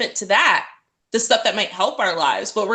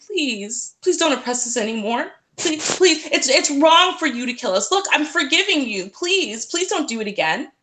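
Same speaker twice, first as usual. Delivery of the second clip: higher, begging like a small child, lightly hammed; mock childlike pleading; 4 semitones higher than usual. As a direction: plead like a scared little kid, mockingly. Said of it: "like small children and saying to the white man".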